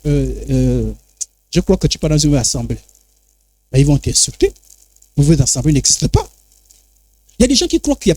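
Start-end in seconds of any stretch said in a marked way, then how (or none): 0.0-6.3 lower, scornful brush-off; a light mock of a dismissive churchgoer; dismissive believer. Believers scoffing at a warning about sects, scornful. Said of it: "quand tu dis".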